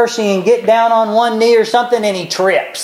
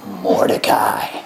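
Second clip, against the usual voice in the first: "Mordecai" whispered low and slow; whispered reveal; 13 semitones lower, 4 dB quieter, slower than usual. Shown as a demonstration. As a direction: breathe "Mordecai" as a secret reveal. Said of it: "guess who he puts it on".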